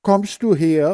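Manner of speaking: high loud call. Acted. Hans Frieder calling the girl back, loud. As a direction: call her back loudly. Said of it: "ruft Hans Frieder".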